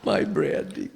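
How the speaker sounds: whispered lament; stricken whisper. Acted. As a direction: breathe it out in grief. Brandy bottle just broke.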